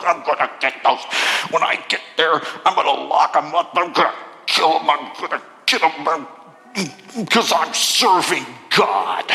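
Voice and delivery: low, menacing mock threats; threatening. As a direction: growl out the threats like a zealot. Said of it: "breathing out threats".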